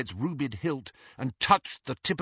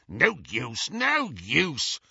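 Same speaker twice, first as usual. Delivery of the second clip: snarling goblin; much slower than usual. Acted. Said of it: "snarled the goblin".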